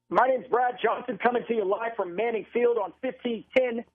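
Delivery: even, projected broadcaster sign-off; radio station ID. Real, not acted. Announcer tells listeners of an injury timeout, radio sign-off. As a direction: hand off to the break like a sportscaster. Station identification before break.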